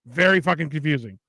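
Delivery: ordinary delivery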